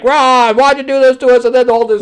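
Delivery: loud, high-pitched hammed-up cry; overacted anguished shout; mock wailing accusation. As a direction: wail it like a melodramatic victim. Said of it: "And it's like".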